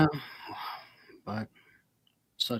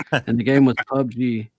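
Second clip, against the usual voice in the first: put-on Irish accent; 4 dB louder than usual. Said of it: "You do the best Irish accent in here".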